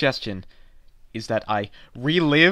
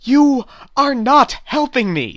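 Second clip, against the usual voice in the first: loud, slow complaint; slow, loud frustrated outburst; 9 semitones higher, 4 dB louder, slower than usual. Acted. Customer venting at the useless clerk, slow and loud. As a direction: drag each word out in anger.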